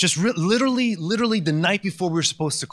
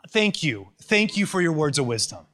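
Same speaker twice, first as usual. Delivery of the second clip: sarcastic thanks. Acted. Preacher sarcastically thanking friends for their advice, dripping sarcasm. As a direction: thank them while rolling your eyes. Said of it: "Excuse my cynicism and sarcasm".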